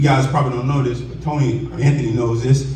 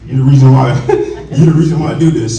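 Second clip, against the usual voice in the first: emotional; 7 dB louder, faster than usual. Real, not acted. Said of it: "I'm so emotional today".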